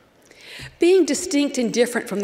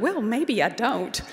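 small, wavering, meek concession; lightly acted timid backing down; mock whimper. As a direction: give in with a little whimper. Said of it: "I then whimpered".

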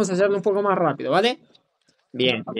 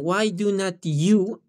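slow model; 4 dB quieter than usual. Shown as a demonstration. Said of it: "sí está bien".

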